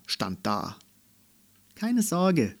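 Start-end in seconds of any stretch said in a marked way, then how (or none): 1.8-2.5 higher-pitched, lightly reassuring promise; promising. A narrator's reading. Girl promising her grumpy toy unicorn, reassuring. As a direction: promise it to an old friend. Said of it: "versprach sie ihm".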